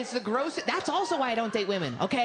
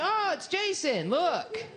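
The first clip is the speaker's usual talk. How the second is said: a much higher, pleased voice, drawn out; high excited recognition; 10 semitones higher, slower than usual. Retold or imitated. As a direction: spot a friend and point him out happily. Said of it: "And you're like".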